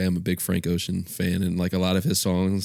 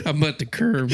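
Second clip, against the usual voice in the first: laughing imitation; 8 semitones higher, 3 dB louder than usual.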